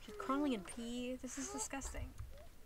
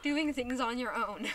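loud scolding; 7 dB louder than usual. Acted. Scolding the game kids.

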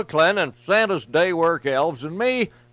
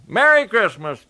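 a mildly raised, upbeat holiday call; cheerful yell; 3 semitones higher, 4 dB louder than usual. Acted. Santa yells his holiday greeting from the sleigh, mildly raised. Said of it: "yelled Sandy".

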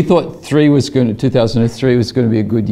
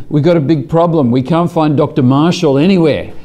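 urgent caller; 5 semitones higher than usual. Retold or imitated. Swedish caller's urgent problem.

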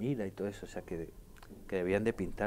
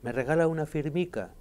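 higher, sweetly lilting Colombian request; a hint of a Colombian accent; imitating a Colombian girl; 7 semitones higher, 4 dB louder than usual. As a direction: ask for the autograph in a light Colombian lilt. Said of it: "pues llegas allí y dice".

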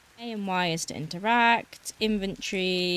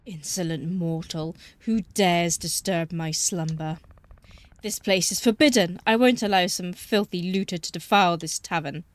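hissing reptile growl; 3 dB louder than usual. Acted. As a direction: growl out the threat like an ancient guardian. Voices the boggart spirit.

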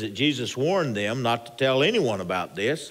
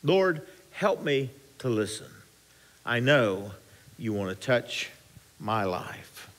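sample prayer; 3 semitones lower, 4 dB quieter than usual. Shown as a demonstration. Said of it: "Just pray and say".

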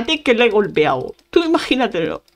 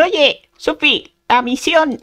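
higher, drawn-out mock call; imitated nagging helper; 4 semitones higher, much slower than usual. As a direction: mimic someone pestering with a reminder. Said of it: "estás temblando y diciendo".

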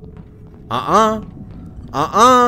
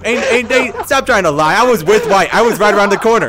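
loud, fast accusing rant; heated accusation; 7 semitones higher, 5 dB louder than usual. Acted. Player accusing Cyan in the meeting, loud and heated. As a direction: call out the liar hard.

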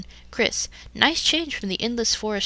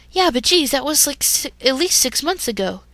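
defensive retort; 5 semitones higher than usual. Acted.

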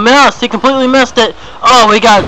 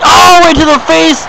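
wince-and-cheer ringside call; excited call; 8 semitones higher than usual. Real, not acted. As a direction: punch up the call. Commentator reacting to chair shot.

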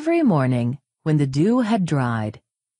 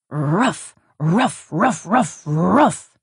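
dog barking; 2 semitones higher, slower than usual. Acted. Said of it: "barking and growling".

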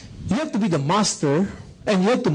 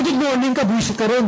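higher-pitched, irritated retort; snapping back; 5 semitones higher, faster than usual. Acted. Upset child answering the helper's good morning, irritated. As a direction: throw the greeting back crossly.

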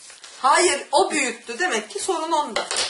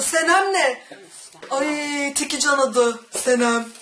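voice cracking; 3 semitones higher, 4 dB louder, slower than usual. Real, not acted. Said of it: "Aa, bak sesim gitti".

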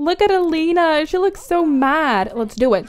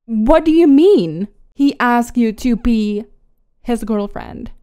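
mock indignant; 2 semitones lower than usual. Mad fiancee confronting her rival, indignant. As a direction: demand an answer, mildly outraged. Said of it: "She also looks so mad".

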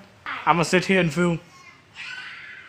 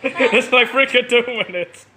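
laughing; 4 semitones higher than usual. Real, not acted. Teasing, laughing at quick loss.

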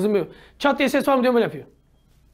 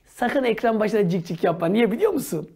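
normal talking voice

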